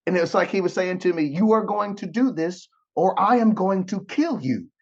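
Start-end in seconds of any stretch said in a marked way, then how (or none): 1.2-4.7 higher-pitched, emphatic mock threat; stern ultimatum. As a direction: lay down the law, acting it out. Acting out God's stern ultimatum.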